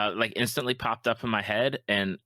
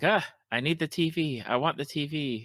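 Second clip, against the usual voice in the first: put-on high whiny child voice, pitched up; whiny kids; 7 semitones higher than usual. Parent imitating kids demanding the TV, whiny. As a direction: whine like a kid begging for the TV. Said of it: "kids are gonna be like".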